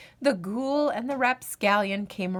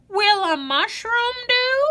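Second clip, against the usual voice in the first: cheeky rapscallion; 11 semitones higher, 5 dB louder than usual. Acted. Rapscallion offering mushroom.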